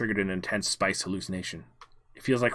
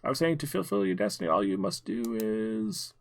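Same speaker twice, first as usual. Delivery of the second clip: hoarse from spice; 3 dB quieter than usual. Pretend. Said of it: "spice stuck in my throat".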